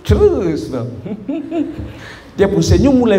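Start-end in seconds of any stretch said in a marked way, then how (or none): 0.1-0.9 drawn-out mock-sweet prompt, pitched up; imitating a mother's veiled threat; dangerously smiling mother. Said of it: "Kalau dia bilang terus". 0.9-1.9 soft, high mock snicker; imitated menacing little laugh; ominous mother's chuckle. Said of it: "sampai dia bilang, hmm".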